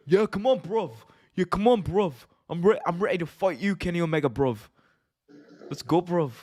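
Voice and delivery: imitating Ospreay's British accent, bruv-heavy; cheeky British wrestler trash talk; mock British accent. Mocking Ospreay's British accent to the co-host. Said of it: "you have Will Ospreay going out there".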